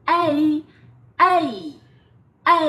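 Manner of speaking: "A" as a wide, rising ei glide; emphatic teacher's model of "A" as ei; open-mouthed diphthong. Shown as a demonstration. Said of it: "Nó phải mở ra như vậy".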